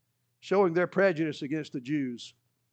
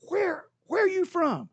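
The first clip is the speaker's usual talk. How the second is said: much higher, hesitant anxious question; nervous Pilate; 13 semitones higher than usual. Acted. Superstitious Pilate anxiously asking Jesus where he is from. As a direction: ask it with dread.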